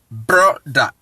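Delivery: "brother" as low bro, then da; syllable-by-syllable pronunciation. Shown as a demonstration. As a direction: model "brother" in two detached beats. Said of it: "Now, let us".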